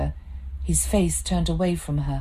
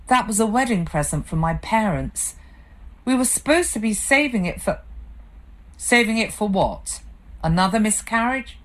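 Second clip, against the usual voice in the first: a touch higher, stung wife arguing back; hurt angry wife; 5 semitones higher than usual. Acted. Wife arguing with her drinking husband, hurt. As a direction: throw it back at him, wounded. Claire confronting Simon.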